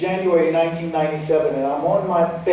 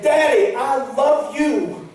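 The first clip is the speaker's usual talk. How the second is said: pleading; 8 semitones higher, 4 dB louder, slower than usual. Retold or imitated. Pleading to father.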